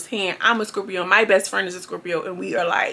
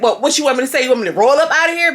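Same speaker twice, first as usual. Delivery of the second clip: louder, pitched-up irritated retort; mock annoyed Bobby; 4 semitones higher, 5 dB louder, faster than usual. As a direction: snap back like you've had enough. Bobby getting pissed off.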